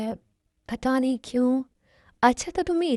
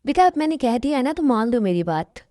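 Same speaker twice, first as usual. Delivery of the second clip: louder, faster, brooking no argument; firm insistence; 3 dB louder than usual. Acted. Uncle overrules his nephew's objection with firm insistence. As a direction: settle it, no more discussion.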